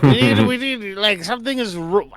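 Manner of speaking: loud urgent character voice. Acted. Character voice continues.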